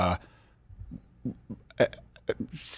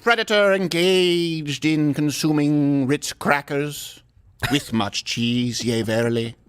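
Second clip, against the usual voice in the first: booming biblical narration; much slower than usual. Pretend. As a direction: intone it like the King James. Mock scripture, deep and slow.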